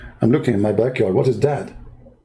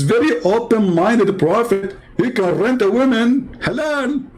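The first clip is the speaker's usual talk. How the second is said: sarcastic halal; 8 semitones higher than usual. Pretend. Sarcastic praise of prophet.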